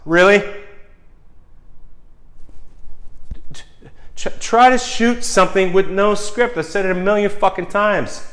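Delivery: angry rant at executives. Acted. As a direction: yell at them like they're in the room. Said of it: "I'm talking to them, not you guys".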